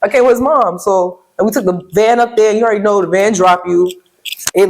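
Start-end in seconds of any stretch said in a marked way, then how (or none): 0.0-0.8 high, loud, fast, laughing disbelief; laughing exasperation. Real, not acted. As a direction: laugh it off loudly, half exasperated. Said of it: "I was ready to cry".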